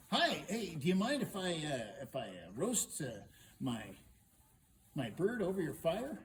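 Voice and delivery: loud, halting, stumbling request; hesitant request. Acted. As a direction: ask haltingly, with ums and pauses. Hero hesitantly asks princess a favour.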